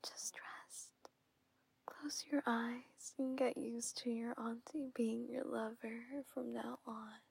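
calm lulling whisper; soothing whisper. Acted. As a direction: whisper them to rest.

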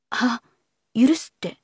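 questioning, rising on the last word; asking back. A narrator's reading. Man asking a young lady what she means by forgiving, questioning. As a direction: ask back, briefly puzzled. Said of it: "菊路は聞き返しながら".

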